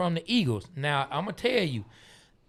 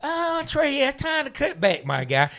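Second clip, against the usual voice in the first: mock self-scolding; 6 semitones higher than usual. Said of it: "I said".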